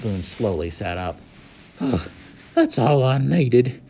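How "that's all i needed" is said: bitter. A narrator's reading. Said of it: "he remarked bitterly".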